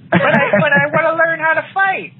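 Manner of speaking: put-on high pleading child voice; whiny kid. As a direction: beg like a clingy little kid.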